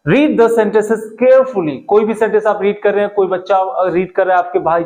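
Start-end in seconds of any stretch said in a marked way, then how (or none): 0.1-1.8 each word laid out slowly and clearly; slow model sentence. Shown as a demonstration. Teacher slowly models a phrase for students. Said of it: "next आता है".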